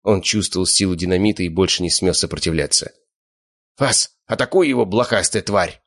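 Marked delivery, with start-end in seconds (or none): 3.8-5.8 ranting. Acted. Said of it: "распинался хозяин разрушителя".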